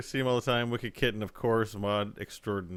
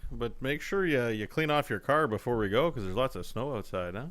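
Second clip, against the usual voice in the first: Canadian impression. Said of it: "the Canadian impressions".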